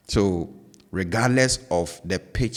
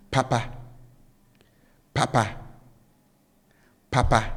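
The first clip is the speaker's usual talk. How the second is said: "papa" with both syllables held high; 5 semitones higher than usual. Shown as a demonstration. Teacher showing learners the first Twi word, high-high tone on "papa". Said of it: "tone with which I pronounce both syllables are up".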